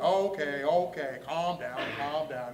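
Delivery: steady yourself, each phrase easing down; acted-out self-soothing; calming himself down. Talking himself down after freakout.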